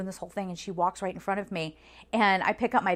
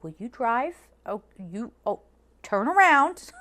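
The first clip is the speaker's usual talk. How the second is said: urgent plea; 2 semitones higher, 3 dB louder than usual. Retold or imitated. Urging slow shuttle driver.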